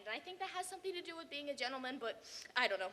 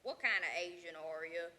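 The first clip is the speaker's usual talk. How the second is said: questioner's voice; 8 semitones lower than usual. Retold or imitated. Imitating the man who asks him, low and deliberate. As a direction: mimic the blunt questioner. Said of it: "And so he said to me".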